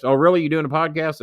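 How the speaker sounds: a hint of an incredulous Jimmy; imitating Jimmy Cornette. Jimmy voiced in phone story.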